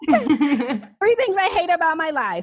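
dramatic reading. Shown as a demonstration. She reads her own exercise heading in mock-dramatic style. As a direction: read it out like a drama queen. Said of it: "I just talk dramatic".

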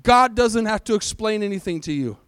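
firm, evenly weighted declaration; emphatic. Shown as a demonstration. Preacher models a line for neighbours to repeat, emphatic. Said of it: "say this with emphatic voices".

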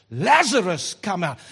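calling a dead man out, loud; shouted command. Retold or imitated. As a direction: shout Lazarus out of the grave. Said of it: "in a cemetery he shouts".

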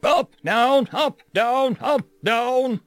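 high, loud barked commands; drill instructor shout. Acted. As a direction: bark the drill count. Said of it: "our drill instructor shouted".

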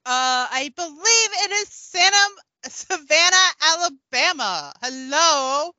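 a hint of a peppy tween vlogger; teen idol character. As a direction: play a perky child celebrity giving vlog tips, lightly. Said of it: "A word from our favorite teen idol".

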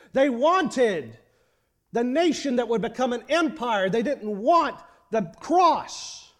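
impassioned pulpit indictment; fervent preaching. Real, not acted. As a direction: press each charge home in rhythmic repetition. Preaches with rising fervour.

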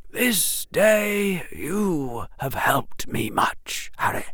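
put-on slow, hushed old wizard voice; old headmaster whisper. Headmaster thanking Harry, slow and hushed. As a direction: breathe it like a frail old headmaster.

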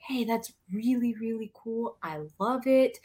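complimenting. Shown as a demonstration. Modelling praise for a child at church, complimenting. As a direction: affirm it before easing into a redirection. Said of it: "what you do first is you compliment".

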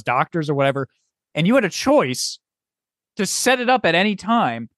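acting out a fed-up rant, not shouting; exasperated rant. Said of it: "I started to get into the mood".

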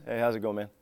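low, soft monotone greeting; casual mumbled hello, all on one low note. Shown as a demonstration. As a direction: toss it off quietly with no tune. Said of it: "it's like monot".

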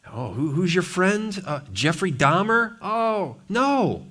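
hammed-up disbelief; mock dialogue. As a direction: act out the shocked friend. Mocking imagined dialogue.

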